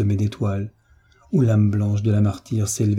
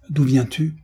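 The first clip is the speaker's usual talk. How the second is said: shouted question; 4 semitones higher than usual. Acted. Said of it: "Alors moi je criai".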